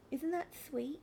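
soft unvoiced whisper. Real, not acted. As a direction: whisper it sweetly. Whispered aside.

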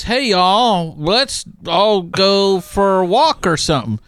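mild mock of a TV preacher; Joel Osteen voice. Imitating the pastor's folksy invitation to a walk. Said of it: "and he would say it like that".

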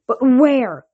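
high, loud booming demand. A narrator's reading. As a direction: boom the question out like a commander. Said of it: "boomed the man".

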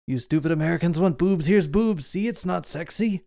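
a light, lazy Dutch-German accent mocking Americans; lazy Paul Verhoeven impression. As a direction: lazily put on a Verhoeven accent, pitch rising. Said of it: "my very lazy Paul Verhoeven impression".

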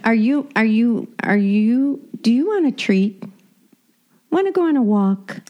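high, excited sing-song pet voice; talking to a dog. Real, not acted. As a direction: tease the dog with a treat.

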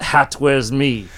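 joking about a Russian hat in a fake Russian accent; Russian accent joke. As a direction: deliver the old Russian joke in a thick Russian accent. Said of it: "This is my Russian, Russian accent".

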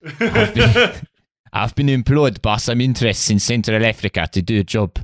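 South African colonel voice; a hammy South African mercenary; South African accent. Acted. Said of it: "your horrible South African colonel character".

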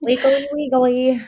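high, slow hammed-up sports chant; mock fan cheer. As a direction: ham up a goofy team cheer. Mock college team cheer.

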